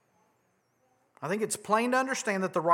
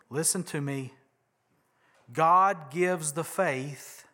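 earnest; 4 semitones lower, 3 dB quieter than usual. Real, not acted. Preacher earnest slow emphasis.

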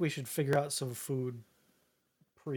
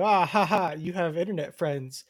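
imitated scoffer with a fake laugh; mocking laughter; 4 dB louder than usual. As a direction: tease with a put-on "ha ha". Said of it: "they'll, like, laugh and be like".

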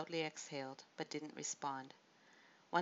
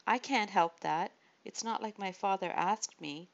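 loud, higher, forceful shout; 3 semitones higher, 7 dB louder than usual. A narrator's reading. Michal shouting at David about her father. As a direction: throw the words at him in anger. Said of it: "Michal shouted".

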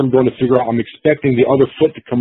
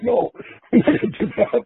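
laughing refusal; 10 semitones higher, 5 dB quieter than usual. Retold or imitated. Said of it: "I'm like".

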